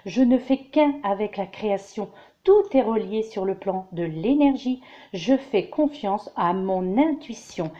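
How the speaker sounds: calm, measured affirmation read, slowing at the end. Shown as a demonstration. Reader recites the week's affirmation to viewers, calm and measured. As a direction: recite it like a gentle mantra. Reads positive affirmation aloud.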